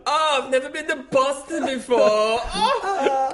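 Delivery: high squeaky goofy voice; silly high voice. Pretend. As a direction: squeak it out like a cartoon. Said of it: "You can say anything in that voice".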